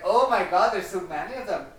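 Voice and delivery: high, loud panicked creature voice; little grabbers voice. Retold or imitated. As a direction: squeak it like a tiny monster.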